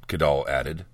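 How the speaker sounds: ordinary delivery, nothing marked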